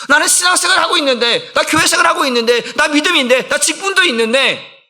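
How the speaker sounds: impassioned pulpit plea; fervent preaching. Acted. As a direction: cry out the believer's emptiness. Preacher voicing believer's lament.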